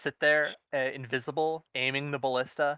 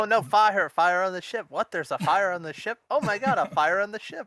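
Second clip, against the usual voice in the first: hammed-up high panicked cries, laughing at the end; mock panic; 7 semitones higher, 5 dB louder than usual. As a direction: overplay a guard losing it. Player hams up panicking guards.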